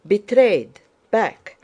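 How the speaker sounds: urgent shout of warning; shouted alarm. A narrator's reading. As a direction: cry out the betrayal and call retreat. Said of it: "shouted Dólokhov".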